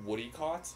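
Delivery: "woody caught" run together as one word; imitated run-on "woody caught". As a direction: slur the phrase into "woody caught". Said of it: "stringing the words together".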